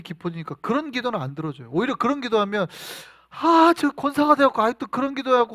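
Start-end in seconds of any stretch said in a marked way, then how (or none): 3.3-5.5 louder, higher exasperated rebuke; mock-exasperated telling-off; acted scolding. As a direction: play God telling off a long-time believer. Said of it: "혼낸단 말이에요".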